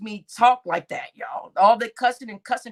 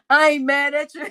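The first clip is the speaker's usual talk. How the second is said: A rapper's voice; 3 semitones higher, 4 dB louder than usual. Pretend. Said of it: "In my Tupac voice".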